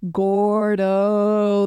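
drawn-out monster growl on one note; slow growl. A narrator's reading. The Babadook growls from across the room, slow monster growl. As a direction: growl it slowly like a creature. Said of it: "the Babadook slowly growled".

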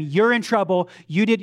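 a hint of a stern theatrical dad; mock-stern father scolding. Father scolding his toddlers in his theatrical dad voice. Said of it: "you get my dad voice".

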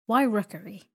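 loud sudden demand. A narrator's reading. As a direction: snap the question out suddenly. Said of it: "said Miss Betsy, suddenly".

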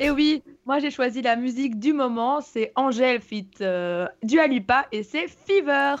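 talking while chewing chips; words round a bite of chips; mouth full. Real, not acted. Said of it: "finis de mâcher". (la bouche pleine)

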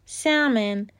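"سالمن" said the English way with silent L; correct pronunciation. Shown as a demonstration. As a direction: say "سالمن" as "SAM-en", no L sound. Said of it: "تلفظ درستش".

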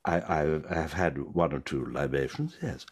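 lightly voiced old drunk; mock dignified drunk. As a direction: admit it with grand dignity. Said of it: "He said".

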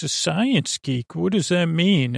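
questioning, pitch jumping up on "geek"; mock puzzlement. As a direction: imitate someone puzzled by a term. Doctor puzzled by word, retold.

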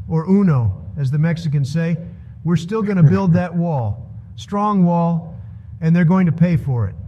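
lightly voiced Trump speech; Trump impression. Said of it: "that speech was pretty spot on. That's exactly what Trump would say".

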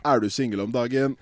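stiff robotic alien asking; like an alien practising human talk. Retold or imitated. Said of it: "Det var jo ganske bra, eh, alien voice".

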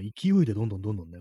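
fast, tumbling run of words; quick-fire, pushing onward; rapid momentum. Real, not acted. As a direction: keep rattling on without a gap. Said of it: "こういうふうに".

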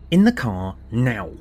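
loud angry order; dad yelling at his son; furious dad. A narrator's reading. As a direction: bark it like a raging father.

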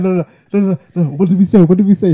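mock panic. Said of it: "she starts panicking".

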